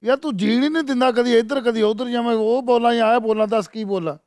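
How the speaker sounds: half-hearted put-on Punjabi grumble; mock politician complaining to the host, lightly voiced; fake voice. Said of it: "इतना fake बोल रहे हैं आप".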